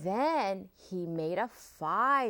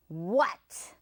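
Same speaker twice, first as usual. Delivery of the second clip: growled. Acted. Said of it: "growled the fox".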